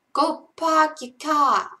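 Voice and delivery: loud, high, slow Boston accent. Shown as a demonstration. Streamer performs the requested line, loud Boston accent. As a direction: draw out a Boston accent, dropping the R's. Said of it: "in a Boston accent".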